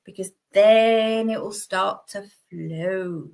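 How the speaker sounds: slow, drawn-out unintended innuendo on flow; slow suggestive drawl on flow; accidentally suggestive. Real, not acted. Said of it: "Oh, that sounded very rude".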